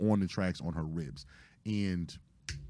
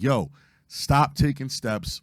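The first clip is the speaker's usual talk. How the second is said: slow, raised warning call, re-enacted; retold yelling; 5 semitones higher, 4 dB louder, slower than usual. Re-enacting a warning to a man near the third rail, mock yell. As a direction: call out a drawn-out warning, held back from a full yell. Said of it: "just start yelling".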